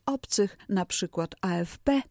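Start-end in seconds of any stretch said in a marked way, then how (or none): 1.4-2.0 A F P read letter by letter as "a-ef-pe"; czytanie literami. Shown as a demonstration. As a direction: spell out A F P by Polish letter names, last one stressed. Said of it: "tak to czytamy". (A F P literowane po polsku: „a-ef-pe”)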